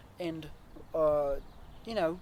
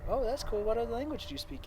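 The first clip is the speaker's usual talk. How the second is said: mock-impressed; 7 semitones higher, faster than usual. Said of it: "I was like".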